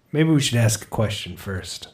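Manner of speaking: low, blocked-nose nerdy mumble; like earplugs up his nose; Napoleon Dynamite voice. Real, not acted. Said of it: "Sounds like Napoleon Dynamite with earplugs up his nose".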